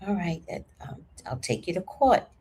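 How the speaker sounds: calm, understated warning; quiet, composed retold reply. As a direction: state the threat softly and evenly. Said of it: "I very calmly said".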